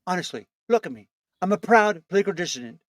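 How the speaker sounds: lightly voiced Trump boast; Trump impression. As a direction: brag like Trump, mildly.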